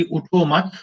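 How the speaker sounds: उठो मत run together, then a stop; comma after मत. Shown as a demonstration. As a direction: join मत onto उठो and pause after it. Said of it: "comma".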